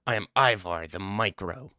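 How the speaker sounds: mock self-introduction as a commenter; lightly put-on character voice, teasing; Ivar the Micro. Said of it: "This is who Ivar looks like".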